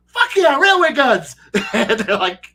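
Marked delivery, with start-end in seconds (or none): 0.1-1.4 loud, high whoop of delight; loud excited whoop with a laugh; gleeful cheer. Retold or imitated. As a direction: cheer it like a kid who just got the best toy. Players cheering about the rail guns.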